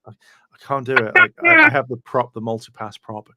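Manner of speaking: loud, fast mock gush; hammed-up fan gushing; mock excited confession. Friend imitates exec gushing over prop, loud and fast. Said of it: "He's just like".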